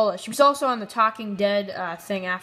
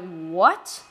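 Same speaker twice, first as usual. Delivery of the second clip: shocked what; 4 semitones lower than usual. Real, not acted. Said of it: "whoa, that took a turn".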